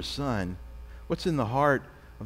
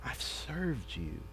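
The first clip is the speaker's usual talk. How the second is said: put-on older brother's complaint; 4 semitones higher than usual. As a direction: let the grievance swell until it bursts. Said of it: "He's saying".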